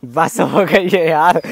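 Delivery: exhausted after pushing the handcart; worn out. Real, not acted. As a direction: let it out like you're done in after pushing. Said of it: "जकवान भाई थक गए हैं".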